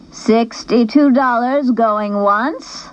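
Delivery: slow, high drawn-out auction call; auctioneer cry. A narrator's reading. Missus McClure calling the bid to the gym, slow and sing-song. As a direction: stretch the bid out to the room. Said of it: "cried Missus McClure".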